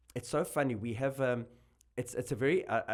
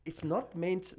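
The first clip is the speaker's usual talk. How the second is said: laughing; 7 semitones higher, 7 dB louder, slower than usual. Real, not acted. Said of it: "laughing at nicknames".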